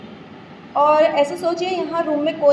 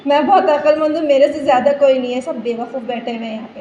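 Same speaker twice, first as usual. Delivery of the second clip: mock boast. Mocking boastful self-talk.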